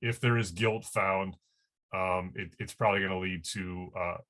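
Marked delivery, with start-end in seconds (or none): 0.0-1.4 "if" repeated with deliberate weight; stress on if. Real, not acted. Reporter repeating the caveat on the investigation, "if" emphasized. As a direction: slowly restate the condition, marking "if". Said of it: "I wanna emphasize the word if".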